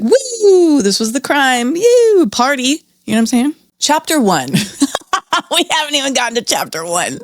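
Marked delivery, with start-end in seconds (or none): 0.0-2.8 high, whooping fake celebration; mock party cheer. Mocking the author's careless picture as a party, high whoop. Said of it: "That could just be like".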